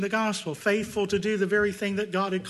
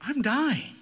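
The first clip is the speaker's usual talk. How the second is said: terrified cry; 5 semitones higher, 4 dB louder than usual. Retold or imitated. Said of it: "He cried out".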